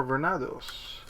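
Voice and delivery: put-on light Spanish accent on Venados, rolled and stressed. Unboxing a card game, a Spanish accent on Venados. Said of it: "putting a Spanish accent on that".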